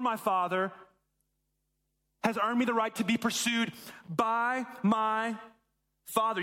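each word laid down slowly and deliberately; slow emphatic statement. Shown as a demonstration. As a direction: spell out the belief word by word. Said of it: "His misunderstanding is this".

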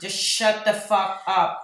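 mock exasperation. Editor to her own recorded voice, mock exasperated. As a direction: tell yourself off in hammed-up despair, word by word.

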